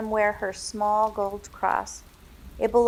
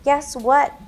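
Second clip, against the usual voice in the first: put-on excited little boy; 6 semitones higher, 8 dB louder than usual. A narrator's reading. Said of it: "Billy exclaimed loudly".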